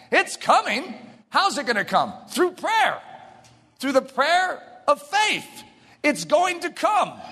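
high, slow-stretched declarations; emphatic preaching. Real, not acted. Preacher assuring the congregation rain will come, emphatic preaching. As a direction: preach it with ringing certainty.

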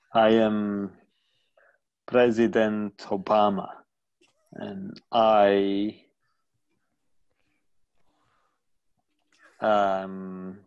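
Obama impression. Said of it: "Let's do an impression of Barack Obama".

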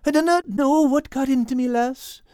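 put-on stammering, accented apology; groveling. A narrator's reading. Cat Al begs forgiveness for wrecking the garden, groveling. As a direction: plead nervously, stumbling over the first word. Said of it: "groveled Al".

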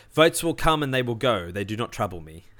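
lightly voiced Star Wars senator; a hint of a scheming Sith lord; Senator Palpatine voice. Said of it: "I read it in, in Senator Palpatine voice".

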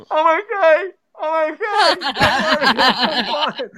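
high-pitched, comic "all good" call; squeaky acted-out reassurance; retold reassurance. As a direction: replay reassuring viewers after a mishap, laughing by the end. Retelling his reassurance after crashing forklift.

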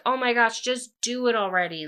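fed-up fan reaction; playful exasperation. Acted. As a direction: urge them on, half-exasperated. Teller impatient with the couple.

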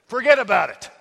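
loud, hammed-up New York accent. Pastor having another go after failing, loud mock New York accent. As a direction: punch it out like an amateur New Yorker. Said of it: "I can't do a New York accent".

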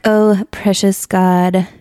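slow, hammed-up pious prayer voice; mock lofty prayer. Host mocking people's stiff prayers to God, hammed-up pious tone. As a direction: lightly mimic an overly formal churchy prayer. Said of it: "with these lofty prayers".

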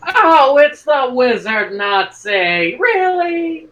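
high, drawn-out "Really?" in disbelief; incredulous outburst. Acted. Player reacting to Hitler's mystic expert, incredulous. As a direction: react loudly, stretching it out in disbelief.

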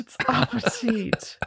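"appetit" as one slow, high word; mock correction. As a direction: draw out "appetit" to correct the misreading. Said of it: "Like the Jeopardy".

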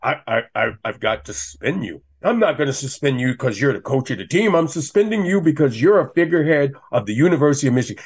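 lightly voiced pompous commissioner handing down a ruling; a hint of a self-important official, quickening at the end; mock commissioner. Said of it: "the new commissioner".

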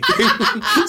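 a short high giggle; giggling up high, can't stop. Real, not acted. Host still giggling at her partner, laughing.

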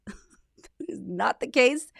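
laughing. Real, not acted. Laughing while correcting a myth.

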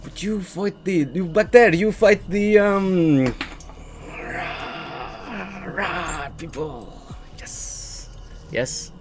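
odd, halting character voice; hesitant tiefling. Acted. Tiefling asks the party about their fight, halting and fading.

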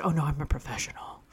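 whispering. Retold or imitated. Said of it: "before it was like".

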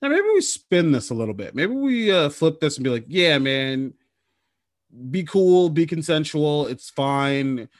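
lightly voiced laid-back church spokesman; mock-cool church talking like a buddy; Catholic Church going easygoing. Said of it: "if I'm the Catholic Church, I'm like".

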